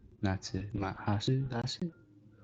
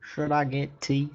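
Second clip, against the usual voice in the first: pitched up; 5 semitones higher, slower than usual. Pretend. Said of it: "Chat, give me a poll".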